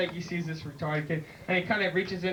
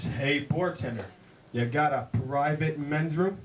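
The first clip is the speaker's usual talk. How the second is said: a hint of the Duke, taking his time; lightly voiced John Wayne drawl; 2 semitones lower, slower than usual. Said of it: "He says".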